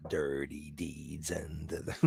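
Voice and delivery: very low, slow and soft; hushed, drawn-out low voice before a chuckle; mock-sinister growl. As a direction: draw it out deep and slow, playfully. Playful drawn-out repeat, then laughs.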